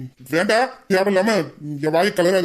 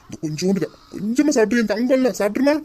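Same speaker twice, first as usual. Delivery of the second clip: high sing-song coaxing; feed her like a little child; husband coaxes wife to eat, sing-song; 4 semitones higher than usual. Acted. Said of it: "குழந்தைக்கு சோறு ஊட்டுற மாதிரி".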